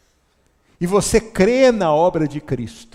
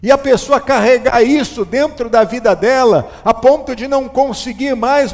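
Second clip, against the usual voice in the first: louder, driving sermon delivery, pressing each phrase; fervent preaching; 5 semitones higher, 6 dB louder than usual. Acted. Pastor urging the church about hidden shame, fervent preaching. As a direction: preach it hard to the congregation.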